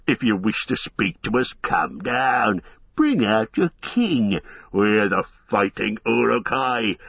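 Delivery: lightly voiced orc horde, taunting; jeering orcs. Uruk-hai taunt Aragorn on the wall, mocking. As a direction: sneer it up at the wall. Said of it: "The orcs yelled and jeered".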